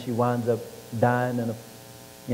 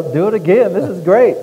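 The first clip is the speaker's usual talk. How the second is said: louder, higher excited coach; 7 semitones higher, 9 dB louder than usual. Retold or imitated. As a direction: gush like a thrilled coach. Coach thrilled by touchdown.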